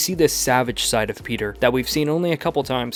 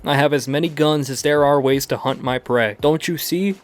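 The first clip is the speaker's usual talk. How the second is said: loud taunting hunter's shout, higher; loud raised voice of a gloating hunter; Kraven yelling; 4 semitones higher, 5 dB louder than usual. Acted. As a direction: bellow the threat after the fleeing hero. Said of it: "Kraven screaming after him".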